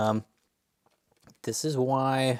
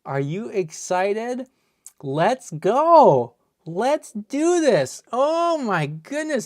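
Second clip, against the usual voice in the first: much higher, much louder, whooping; cheering; 13 semitones higher, 15 dB louder, slower than usual. Real, not acted. Streamer cheers the pull to viewers, whooping cheer. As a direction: whoop it up with joy.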